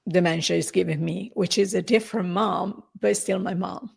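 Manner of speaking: halting, holding back tears; real emotion welling up, with long pauses; about to tear up. Real, not acted. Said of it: "I'm gonna tear up".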